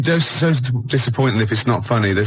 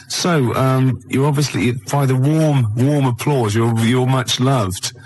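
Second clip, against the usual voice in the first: put-on movie villain German accent; 2 semitones higher, slower than usual. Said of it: "doing the, uh, Nazi accent very well".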